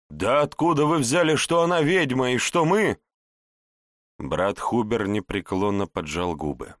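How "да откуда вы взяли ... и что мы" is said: put-on high, loud indignant girl; indignant protest. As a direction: protest in outrage.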